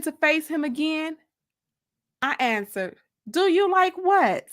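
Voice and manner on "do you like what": raised over engine noise. Acted. Woman raises her voice over the motorcycle engine, half-shouting. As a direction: lift the voice over a revving engine. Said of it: "trying to elevate my voice over the sound".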